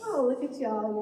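usual speaking voice

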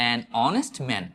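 an honest man with "honest" starting on "o"; an honest man as "an on-est man"; silent H. Shown as a demonstration. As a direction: link "an" to "honest" without any H. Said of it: "এইচ উচ্চারণ হচ্ছে না".

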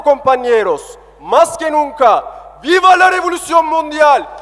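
building to rousing shouted cheers; ranting dictator speech. Real, not acted. Rally speech rising to final cheers.

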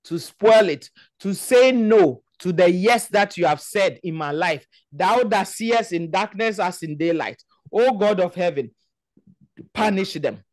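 forceful, chanting prayer leader; preacher praying with insistent force; fervent prayer. Real, not acted. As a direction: lead the congregation in urgent, repeated petitions. Leads congregation in forceful prayer.

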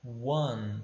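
one with a w glide, like "wan". Shown as a demonstration. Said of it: "a gente pronuncia".

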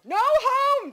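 put-on very high, loud little-kid holler; toddler yell. A narrator's reading. Toddler refusing to go back home, high defiant yell. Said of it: "Dawson yelled".

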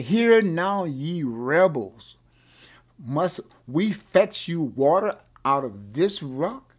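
loud, slow exasperated rebuke; fed-up Moses. Retold or imitated. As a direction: scold them as a leader who has had it. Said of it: "saying he's had it and he's kinda frustrated".

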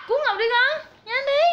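giả vờ kêu cứu. Pretend. Giả vờ kêu cứu giục chó.

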